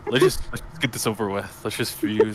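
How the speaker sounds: weary sigh. Acted. Telemarketing man sighing at the player, weary and resigned. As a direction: sigh it out like he's given up. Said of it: "gives you a sigh".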